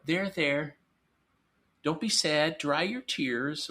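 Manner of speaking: mock soothing. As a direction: coo at a crying child, mildly.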